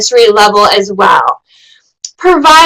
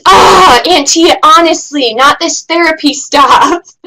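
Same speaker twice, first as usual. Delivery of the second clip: put-on exasperated teen; 3 semitones higher than usual. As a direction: play the annoyed teenager brushing off auntie's therapy talk. Teen niece rolls her eyes.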